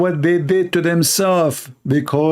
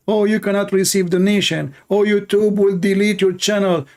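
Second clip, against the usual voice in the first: higher, sing-song mock of the cancellers; mocking whine; 6 semitones higher than usual. Preacher mocking critics who threaten his channel, whiny. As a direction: parody their threats in a whiny voice.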